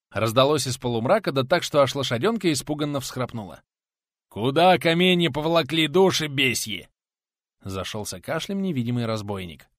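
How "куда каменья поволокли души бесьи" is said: robber's threat. Acted. Robber shouting from the dark.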